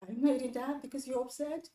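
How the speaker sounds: rising, mocking question; mock-questioning the sulk; incredulous echo. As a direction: throw the refusal back in disbelief. Mocks the husband's refusal back.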